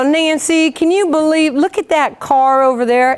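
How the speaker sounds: a hint of a Tennessee roommate's twang; Tennessee broken English. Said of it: "like, some broken English".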